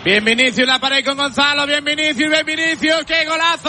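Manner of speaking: rising excitement calling the goal; breakneck goal commentary. Real, not acted. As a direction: build up fast to the goal call. Live goal play-by-play.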